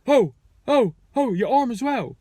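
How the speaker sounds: high, loud mock panic of an old man; flustered panic.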